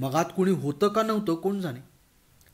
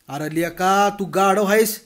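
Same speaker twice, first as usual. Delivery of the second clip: louder, jeering scold; 2 semitones higher, 6 dB louder than usual. Acted. Patil berating Bhagwan on the road, loud scolding. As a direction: tell him off with a sneer.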